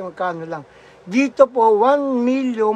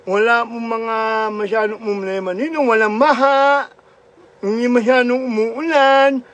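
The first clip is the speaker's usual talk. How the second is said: slurred cleft-palate speech, lightly raised; mock Ngongo voice. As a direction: imitate the Ngongo child calling home, slurring. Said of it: "yung kwento ni Ngongo".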